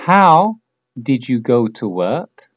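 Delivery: slow, careful, word by word; slow model question. Shown as a demonstration. Teacher models the question slowly for repetition, slow and clear. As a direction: say it slowly so they can repeat. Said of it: "repites lo que digo yo".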